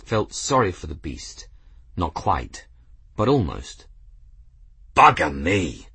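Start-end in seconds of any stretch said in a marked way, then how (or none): 5.0-5.9 blurted. Acted. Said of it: "blurted a burly aeronaut".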